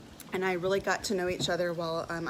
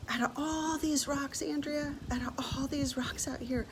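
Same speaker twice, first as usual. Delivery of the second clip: tender divine voice; 6 semitones higher than usual. Retold or imitated. Voicing God's love to her.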